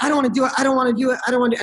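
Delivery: mock the child's nervous refusal, over and over; imitating scared son. Son balking at bungee jumping, imitated scared pleading. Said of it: "his hand is literally shaking".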